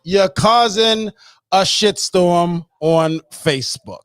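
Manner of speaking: high "Oh", then slow, drawn-out accusation; mock discovery. Imitating Tierra finding his Facebook trolling, slow exclaimed accusation. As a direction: imitate catching someone out, starting high and settling. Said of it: "she gets on Facebook and she says".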